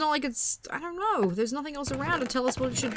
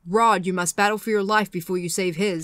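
bad Freddy Krueger voice; 3 semitones lower than usual. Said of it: "that was a terrible Freddy impression".

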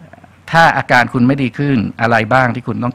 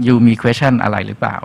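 slow inviting question; slower than usual. Retold or imitated. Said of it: "ถามเลยว่า".

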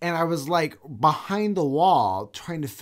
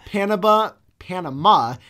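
Panama in a sing-song parrot cadence; 4 semitones higher, 7 dB louder than usual. Retold or imitated. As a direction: say Panama like the coach saying Gatorade. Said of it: "same cadence as the coach from Waterboy".

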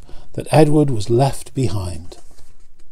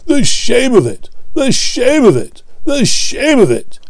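grumbling Gordon; 11 semitones higher than usual. A narrator's reading. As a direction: drag it out in disgust. Gordon grumbling at his load.

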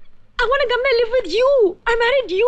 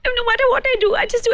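choking up; 4 semitones higher than usual. Acted. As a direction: voice catching on a sob as it drops away. Wife breaks down on phone. (रुंधे गले से)

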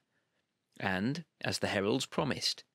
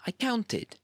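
squeaky exasperated; 13 semitones higher than usual. A narrator's reading. Exasperated aside.

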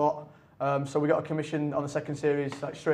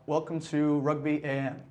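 slow, light Yank accent; American accent; slower than usual. Shown as a demonstration. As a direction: say it slowly with a hint of American. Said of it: "like, a Yank voice".

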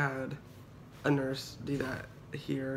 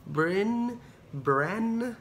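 mock confused reading; 3 semitones higher, much slower than usual. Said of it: "and they're like".

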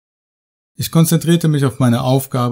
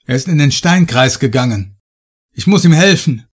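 urgent call; 2 semitones higher, 3 dB louder than usual. Acted. Heiner shouting across cave.

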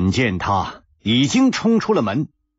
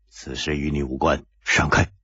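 stern rebuke; 8 semitones lower, 3 dB quieter than usual. A narrator's reading. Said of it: "蒙面客厉声说".

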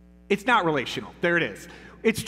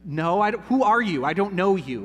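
louder, put-off brush-off; baffled plumber; 2 semitones higher, 5 dB louder than usual. Retold or imitated. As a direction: push the stranger away, affronted. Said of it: "The plumber would be like".

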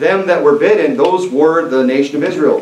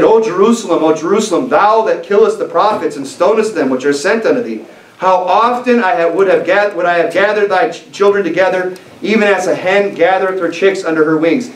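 a touch higher and louder, passionate plea; emphatic exclamation; 4 semitones higher than usual. Retold or imitated. Preacher voicing Jesus lamenting over Jerusalem, impassioned exclamation. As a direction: cry it out to Jerusalem with longing. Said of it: "he said very loudly, very emphatically".

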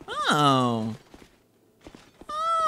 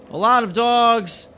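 higher, louder, drawn-out exclamation; slow, raised-voice exclamation; alarmed repeat; 5 semitones higher, 5 dB louder, slower than usual. Real, not acted. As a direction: call it out slowly in dismay.

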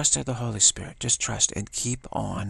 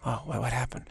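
scared whisper; 2 semitones higher, 5 dB quieter than usual. Retold or imitated. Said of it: "The kid's kinda like".

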